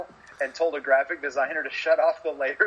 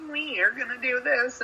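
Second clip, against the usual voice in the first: mock Seth Rollins promo; 12 semitones higher than usual. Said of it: "than listen to".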